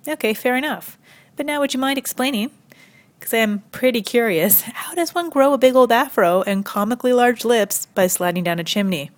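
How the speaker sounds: high, mock-polite questioning; mock curiosity. Comedian querying the chimney excuse, mock curiosity. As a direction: feign innocent interest, pitch lifted.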